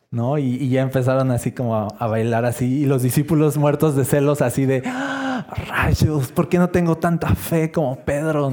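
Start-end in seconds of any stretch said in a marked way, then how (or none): 4.8-8.5 a high sudden cry, then mock envious griping; jealous exclamation. Jealous disciples watching Peter dance with Jesus, high envious outburst. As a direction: groan with envy like a jealous disciple.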